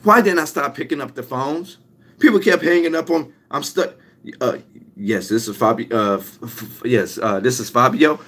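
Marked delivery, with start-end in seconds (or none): 4.4-8.2 stammering into the phone, unsure and hushed; nervous stutter. Retold or imitated. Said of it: "all of a sudden I'm stuttering over the phone".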